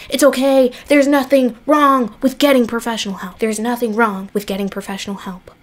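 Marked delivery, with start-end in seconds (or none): 3.4-5.5 softer, quicker mumbled repeat; tossed off under the breath, fast; quiet fast aside. Shown as a demonstration. To the viewers, a softer quick repeat of the advice. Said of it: "repeated softer".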